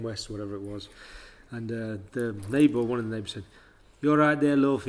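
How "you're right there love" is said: put-on Jamaican accent. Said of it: "in a deep Jamaican accent".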